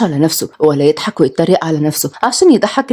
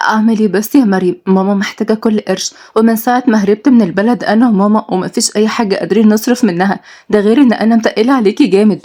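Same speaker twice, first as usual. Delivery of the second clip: put-on lightly raised, worried young woman. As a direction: fret to your friend about money. Nour complains to her friend.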